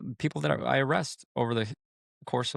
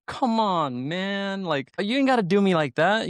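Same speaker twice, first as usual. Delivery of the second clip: high-pitched mock plea, getting louder; retold amused protest; 10 semitones higher, 4 dB louder, slower than usual. Arrested guy to the joking deputy, amused protest. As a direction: imitate a guy protesting as he laughs. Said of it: "instantly starts laughing, and he's like".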